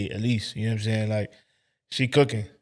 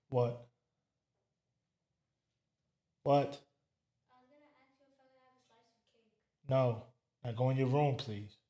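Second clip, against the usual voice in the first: hushed aside; 6 dB quieter than usual. Real, not acted. Host hushes the child at the door, softly.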